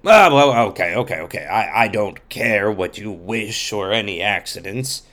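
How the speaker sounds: loud scornful villain judge; Belphegor voice. Acted. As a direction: boast like a corrupt judge. Judge Belphegor answers dismissively.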